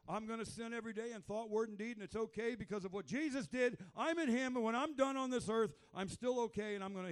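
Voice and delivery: loud, high mocking voice of a smug believer; a hint of a smug sinner; mock complacent believer. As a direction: parody the lazy believer's reasoning. Voicing hyper grace believer.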